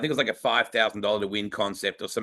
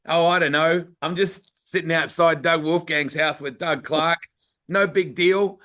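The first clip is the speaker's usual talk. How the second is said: mock casual; 4 semitones higher than usual. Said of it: "And I'm like".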